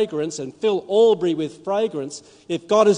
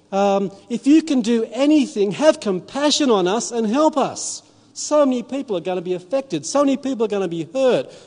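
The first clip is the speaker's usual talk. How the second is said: desperate prayer; 4 semitones higher than usual. Retold or imitated. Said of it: "And I say".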